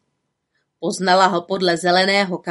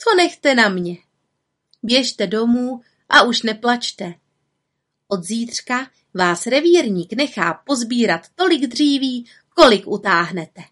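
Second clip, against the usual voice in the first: a higher, brisk little witch's voice; confident little witch; 4 semitones higher than usual. Acted. Little witch comforting the grannies, confident. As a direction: reassure them with a sly promise.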